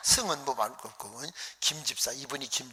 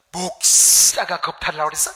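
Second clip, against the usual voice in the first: louder, incredulous outrage; outraged shout; 4 semitones higher, 11 dB louder than usual. Retold or imitated. Elder hearing the accusation against the pastor, outraged shout. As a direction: blow up at the news.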